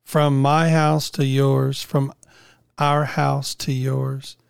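out of breath after a day out shopping; winded, talking between breaths. Real, not acted. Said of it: "if I sound like I'm out of breath".

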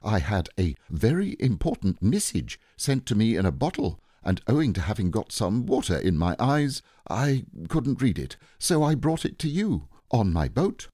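self-important Pooh. Acted. Bear delivering his important message, proudly earnest. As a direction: explain with growing importance.

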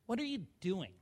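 imitating a brother's judging question; judgmental. Brother catches him at the computer, judgmental. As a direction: put quiet judgment into the question. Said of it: "saying things where you feel so judged".

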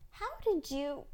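high-pitched amazed question; astonished exclamation. A narrator's reading. Daughter asks mother about the latching baby, amazed. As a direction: exclaim it in wonder. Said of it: "I exclaimed".

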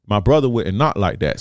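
usual speaking voice

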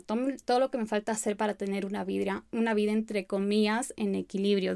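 stumbling over words in a fast rush; tropezando al hablar. Real, not acted. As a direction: rush it and trip, restarting words. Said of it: "Disculpen que me trabe". (trabándose al hablar rápido)

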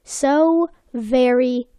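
put-on French-accented documentary narrator, slowing at the end; mock French accent. Opening the episode as the Cousteau-style narrator, mock French accent. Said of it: "With his French accent".

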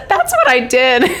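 high, loud, tearful-sounding laughter through the words; real laughter breaking into the speech; laughing. Real, not acted. Telling viewers she reacted just like the TV character, laughing. Laughing at her own re-enactment.

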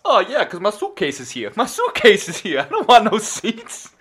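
loosely played old guy. Old guy guarding his suitcase on the bus, lightly played. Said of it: "you be the old guy".

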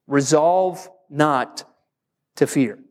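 slow, weighty repeat of the point; slow emphatic. Shown as a demonstration. Pastor repeating the point for note-takers, slow and weighty. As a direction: lean on each word as you restate it. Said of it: "let's write it down like this".

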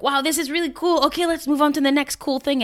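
high, breezy voice, rushing past the moment; mock shallow excitement. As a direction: toss off the wow and hurry on to the next thing. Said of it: "They're like".

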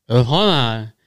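"hold on" blurred with open, drawn vowels; garbled retold reply. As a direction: imitate a half-heard "hold on", consonants lost. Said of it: "'Cause there's fucking music blasting".

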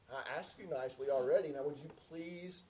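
understated exasperated request, pointed PLEASE; mock impatience. Asking family who didn't pass the salt, mildly impatient. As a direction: hurry the reminder, then lean on please. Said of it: "of impatience".

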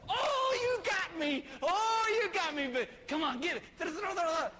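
a fooled pup begging to play on; excited dog. Pretend. Dog at preacher's feet after fake throw, high excited begging. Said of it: "he's like".

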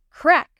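loud sharp crack; thunder crack. A narrator's reading. Thunder sound effect in story.

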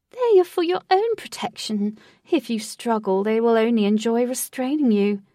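lightly voiced theatrical host; proud showman tour guide; grand host voice. Lutz's host voice.

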